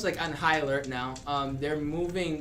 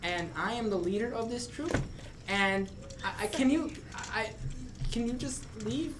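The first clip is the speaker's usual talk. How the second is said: small troll voice; 4 semitones higher, 4 dB quieter than usual. Acted. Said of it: "and he goes".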